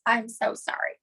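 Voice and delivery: whispered apology aside; real whisper. Real, not acted. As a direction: breathe the apology off-mic. Apologizing aside after puppy chaos.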